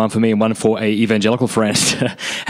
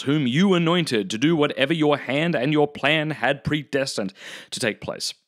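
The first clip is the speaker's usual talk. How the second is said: measured, deliberate reading of a text; solemn quotation with drawn-out key words; formal reading aloud; 3 semitones higher than usual. Acted. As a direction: read it out slowly, phrase by phrase. Reads a quoted text aloud.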